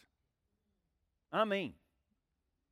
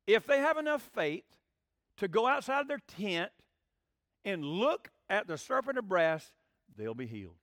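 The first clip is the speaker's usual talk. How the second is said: fiery preaching; 3 dB louder than usual. Real, not acted. Preaching climax.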